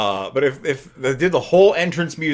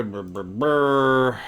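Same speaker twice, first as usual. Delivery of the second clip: idle lip noise; much slower than usual. Real, not acted. Idle noise while thinking.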